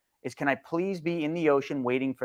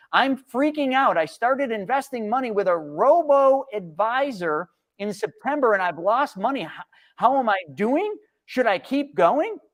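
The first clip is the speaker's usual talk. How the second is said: mock panicked investor; 7 semitones higher than usual. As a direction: play a nervous young investor begging for reassurance. Reading a panicked viewer comment.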